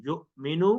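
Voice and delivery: युमिनु with a sharp glottal catch on the hamza; युमिनु, hamza said with a jerk. Shown as a demonstration. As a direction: give the hamza in युमिनु a little jolt. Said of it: "झटका देकर पढ़ना है".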